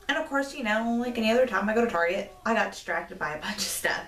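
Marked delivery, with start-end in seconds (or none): 2.4-4.0 sheepish whispered confession; hushed admission about the shopping detour; whispered aside. Real, not acted. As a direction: drop to a whisper like a guilty aside. Aside about getting distracted.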